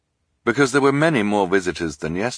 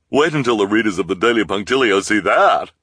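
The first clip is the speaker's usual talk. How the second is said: excited reporter; 4 semitones higher, 7 dB louder than usual. A narrator's reading. Reporter gloating.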